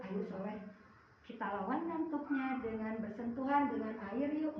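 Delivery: gentle coaxing. Shown as a demonstration. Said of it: "gentle reply to sleepy child".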